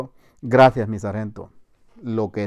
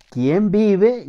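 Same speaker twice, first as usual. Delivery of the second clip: raised, higher challenge; sentry's challenge; 9 semitones higher, 5 dB louder than usual. Retold or imitated. Soldier challenging an approaching man at night, sentry's challenge. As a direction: call it out like a sentry.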